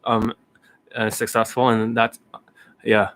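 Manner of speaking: lightly imitated low, halting tech founder; Elon Musk. Playing the founder giving strategies, halting low impression. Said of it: "that's how he talks".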